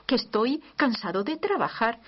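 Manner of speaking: a touch of hammed-up annoyance; mock irritated complaint. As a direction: pretend José snapping at Mary, half-hearted. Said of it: "San José diciéndole".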